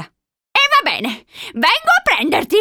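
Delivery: high, slow exasperated threat; panting. A narrator's reading. Old woman about to fetch the boy, panting. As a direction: threaten as if winded. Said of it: "ansimò".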